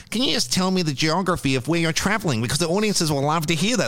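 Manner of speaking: lightly mocked polished radio presenter; a hint of a smooth radio host; professional radio host voice. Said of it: "go full professional radio guy".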